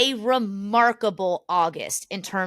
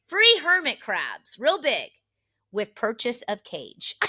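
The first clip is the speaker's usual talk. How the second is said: reading the sign; slower than usual. Retold or imitated. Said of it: "we look at the sign".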